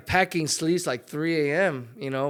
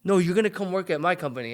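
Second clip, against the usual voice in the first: imitating incredulous dad; 5 semitones higher than usual. Son imitating his dad brushing off his Instagram plan, incredulous. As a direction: scoff at the idea like a stunned father. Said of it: "And my dad's like".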